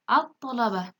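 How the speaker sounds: "at-thalabah" with a heavy doubled T; silent lam. Shown as a demonstration. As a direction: read "at-thalabah" with no L before the T. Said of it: "Lamnya tidak dibaca jelas".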